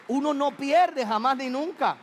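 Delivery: a preacher's rising cry; preaching at full force. Real, not acted. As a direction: proclaim it high and slow to the congregation. Preacher building to climax.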